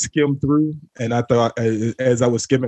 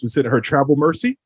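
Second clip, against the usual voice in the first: grandma voice; 2 semitones higher than usual. Pretend. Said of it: "in my grandma voice".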